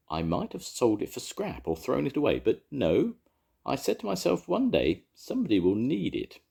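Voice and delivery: put-on high, pleased old baker. A narrator's reading. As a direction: tell it proudly. Eli proudly recalls.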